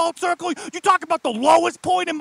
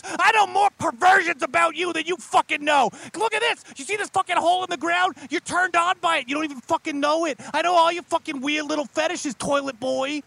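mocking demon. Demon boss taunting a party member about fetishes. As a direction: jeer at his secret shames.

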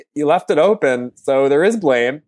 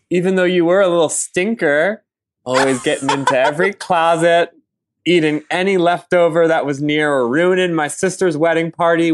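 earnest, overblown eulogy reading; reading a poem; 3 semitones higher than usual. Acted. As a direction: read it like a solemn tribute. Reads eulogy poem for dog.

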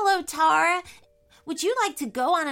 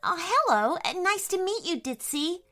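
put-on high, friendly girl character; lightly acted sweet hello; smiling greeting; 9 semitones higher than usual. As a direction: greet a new friend with a smile, pitched up. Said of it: "replied with a smile".

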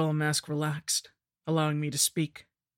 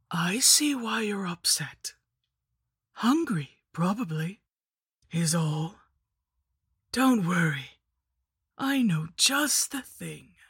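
witch voice; 3 semitones higher than usual. Acted. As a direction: coo it like a wicked grandmother. The hag offers the worm.

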